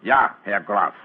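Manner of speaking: lightly put-on German accent, Holmes trying it out. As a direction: speak it as a German count would, pleased with yourself. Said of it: "Try it once again".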